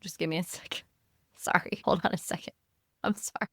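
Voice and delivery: strained, quiet, holding in a sneeze; holding back a sneeze. Real, not acted. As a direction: talk while fighting a sneeze. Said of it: "I'm trying to hold back a sneeze".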